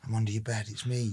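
dark whisper behind you. Pretend. Spooky voice from under bed.

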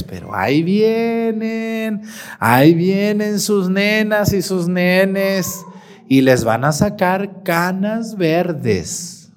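slow, drawn-out warning, a hint of menace; ominous warning. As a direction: stretch each word like a threat on the horizon. Priest warns of coming teens.

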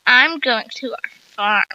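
put-on slow, offhand cool kid; a touch of casual swagger, slowly; mild fake cool; trying to sound cool. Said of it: "trying to sound cool".

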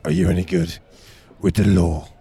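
low, lightly voiced Cockney geezer; Cockney accent. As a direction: give it straight like a London bloke. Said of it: "now gone Cockney".

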